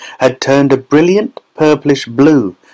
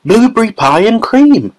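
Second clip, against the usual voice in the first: shouted with glee; 11 semitones higher than usual. A narrator's reading. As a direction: announce dessert in triumph. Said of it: "shouted Violet".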